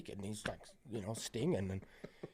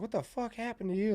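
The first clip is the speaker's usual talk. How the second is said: high-pitched astonished question; retold shock; 10 semitones higher, 3 dB quieter than usual. Coworker seeing his battered face in the office, shocked. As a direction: imitate a startled coworker, pitch leaping up.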